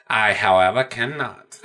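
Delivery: lightly voiced composed villain; Hannibal Lecter. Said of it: "He's like".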